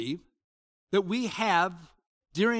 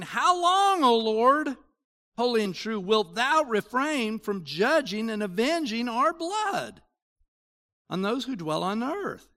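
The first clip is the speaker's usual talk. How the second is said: crying out; 3 semitones higher than usual. Acted. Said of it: "They cry out with a loud voice".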